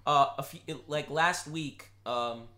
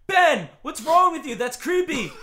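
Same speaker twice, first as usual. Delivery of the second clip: higher, louder mock-shocked mom; scolding mom; 11 semitones higher, 10 dB louder than usual. Mom in the car scolding Ben, higher and louder. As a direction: scold him like an appalled mother. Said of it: "she's like".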